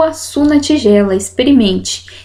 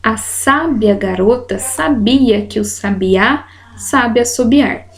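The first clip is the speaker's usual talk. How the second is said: each accent falls on its own syllable: "SÁ-bia", "sa-BI-a", "sa-bi-Á"; slow demo sentence. Shown as a demonstration. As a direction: slowly, stress on "sábia", "sabia" and "sabiá". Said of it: "frases pra mostrar pra vocês".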